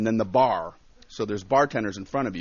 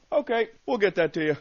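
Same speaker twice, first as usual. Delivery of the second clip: high, raised fobbing-off voice; imitated brush-off; 9 semitones higher, 5 dB louder than usual. Club man puts off paying the comic, breezily evasive. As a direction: fob him off.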